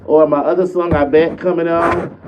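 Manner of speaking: lightly voiced perky young Sierra; old Sierra voice. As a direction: hype up your own songs like a teen star. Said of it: "Sierra used to talk like this".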